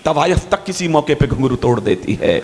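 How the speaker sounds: measured, declaiming couplets; poem recital. Acted. Poet recites his couplets to the crowd, declaiming.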